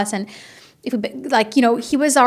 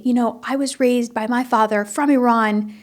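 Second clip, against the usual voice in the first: father lecturing; 4 semitones higher than usual. Retold or imitated. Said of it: "always say to me".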